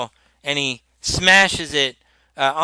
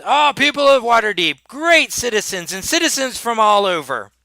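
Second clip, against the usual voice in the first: pompous nobleman. Acted. Nobleman's grand ship christening speech.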